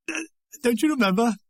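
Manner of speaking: lightly laughed question, mild; laughing. A narrator's reading. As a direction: read it with a touch of amusement, lifting at the end. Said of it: "Beryl laughing".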